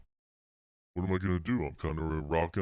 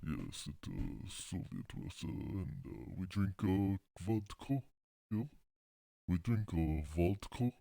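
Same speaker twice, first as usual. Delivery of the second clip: softer, halting attempt at a Russian accent; 5 dB quieter than usual. Comedian testing how to do a Russian, tentative Russian accent. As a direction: feel out a mock Russian accent. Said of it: "How do you do a Russian accent?".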